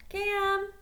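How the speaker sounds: a loud, high call to someone behind the door. Acted. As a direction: shout his name through the plywood. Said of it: "called out".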